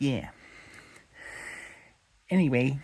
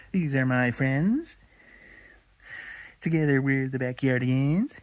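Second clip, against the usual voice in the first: Austin; 3 semitones higher, 4 dB louder than usual. Acted. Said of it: "Really going with that voice?".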